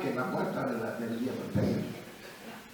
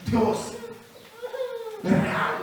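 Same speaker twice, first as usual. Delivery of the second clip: grito emocionado; much slower than usual. Retold or imitated. Quoting a man's conversion cry.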